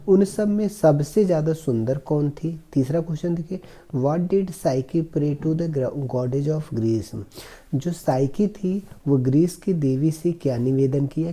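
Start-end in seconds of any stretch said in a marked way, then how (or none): 3.9-7.2 slow, careful reading of the English passage; slow reading aloud. Shown as a demonstration. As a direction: read each word slowly for the class. Teacher reads question slowly. (धीमी आवाज़ में अंग्रेज़ी पढ़ना)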